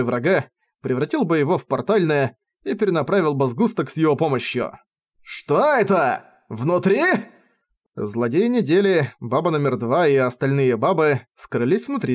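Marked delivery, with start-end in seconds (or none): 5.2-7.0 slow, rising, caught off guard; suddenly unsure what's happening; startled question. Acted. Villain surprised by mirror prison. (испуганное удивление)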